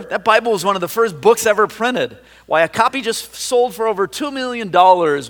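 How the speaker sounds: a book lover appalled at the loss; exclaimed in horror. A narrator's reading. Book lover tells his friend its worth, horrified. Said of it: "the book lover exclaimed in horror".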